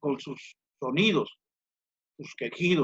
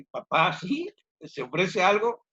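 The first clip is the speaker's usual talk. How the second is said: son's voice; 4 semitones higher than usual. Acted. Son answers the door.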